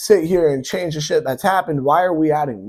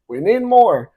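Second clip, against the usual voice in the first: louder mock demand; 7 semitones higher, 5 dB louder, slower than usual. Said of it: "they're like".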